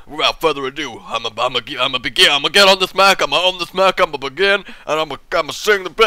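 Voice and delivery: mock pop star mumbling into the mic; singer's speaking voice. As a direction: talk like a singer warming up to sing. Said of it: "I don't know why I'm speaking like this".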